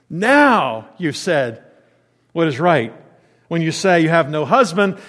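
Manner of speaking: pointed, emphatic sarcasm with stretched key words; sarcastic. Acted. Jesus confronting the woman about her husbands, pointedly sarcastic. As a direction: drive each phrase home, slowing as it goes. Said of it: "It literally has that impetus to it".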